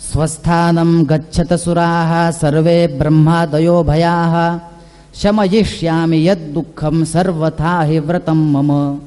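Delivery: slow, low chanted recitation of the shloka; Sanskrit verse recitation. Acted. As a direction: intone the verse slowly and steadily. (संथ, खालच्या सुरात श्लोक पठण)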